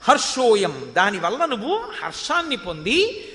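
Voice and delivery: normal talking voice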